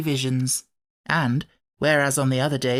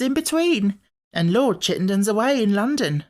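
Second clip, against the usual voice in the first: excited gossiping maid; 7 semitones higher than usual. A narrator's reading.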